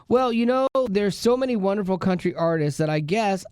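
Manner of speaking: put-on hint at a famous country singer's accent; a touch of a country singer's accent. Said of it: "have the speaker read it in her accent".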